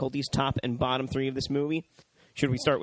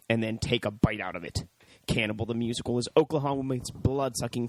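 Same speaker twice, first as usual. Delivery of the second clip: steady, slightly lower announcer read; DVD blurb read; 3 semitones lower than usual. Real, not acted. Host reading the DVD case to listeners, announcer read. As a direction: read it out like movie back-cover copy. Reads out the DVD back cover.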